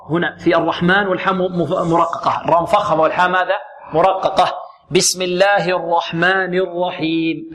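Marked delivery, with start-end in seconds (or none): 4.9-7.5 slow, measured Quran recitation; slow tajweed model; demonstration recitation. Shown as a demonstration. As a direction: recite slowly, drawing out the long vowels. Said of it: "هكذا".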